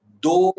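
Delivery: दो called out high and loud; stress on दो. Shown as a demonstration. Teacher to students, stressing दो loud and high. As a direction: hit दो hard for the class.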